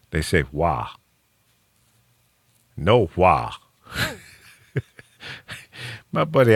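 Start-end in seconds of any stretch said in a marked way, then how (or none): 0.5-0.9 lightly imitated Florida country "Wah"; Florida country accent. Shown as a demonstration. Host shows Carol where the word comes from, light Florida accent. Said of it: "people down in Florida". 2.8-3.5 lightly imitated Florida country "No, wah"; a hint of rural Florida in the vowel; Florida country accent. Shown as a demonstration. Host repeats the Florida saying to Carol, light country accent. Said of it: "people down in Florida".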